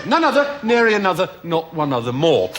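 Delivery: pompous lecturer hammering a point; loud, emphatic declaiming. Acted. Pompous lecturer to interviewer, hammering a point loudly. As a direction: declaim it to the back row.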